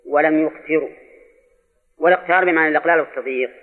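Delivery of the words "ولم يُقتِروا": يقتروا read yuqtirū; third of three readings. Shown as a demonstration. Teacher lists three readings, here يقتروا as yuqtirū. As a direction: say يقتروا with "yu" first and "ti" after. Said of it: "فتكون قراءات على هذا".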